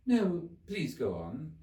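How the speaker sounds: slow, pleading and humble. A narrator's reading. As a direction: beg him gently to continue. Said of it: "very humbly".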